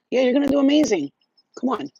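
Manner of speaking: bright pep talk to Shira; encouraging pep. Real, not acted. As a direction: hype up a nervous friend.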